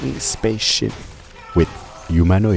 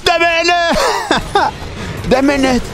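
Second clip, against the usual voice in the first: yelled outburst; 4 dB louder than usual. Acted. Outburst over voiced protagonist.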